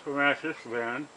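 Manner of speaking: talking with a pin in mouth. Real, not acted. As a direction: say it with a pin held in the lips. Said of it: "Pin in my mouth".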